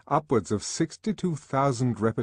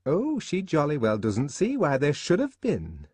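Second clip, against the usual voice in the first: mocking repeat; 6 semitones higher than usual. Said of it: "as though to an invisible listener".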